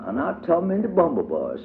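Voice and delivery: put-on small and careful like the youngest child; tiny child voice for Tot. A narrator's reading. Tot voiced, baby talk.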